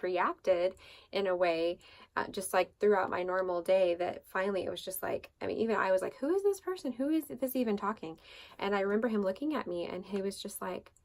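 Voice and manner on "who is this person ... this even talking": high-pitched disbelief at herself; retold bewilderment, pitch jumping up; incredulous. Wife baffled by her own reaction, incredulous.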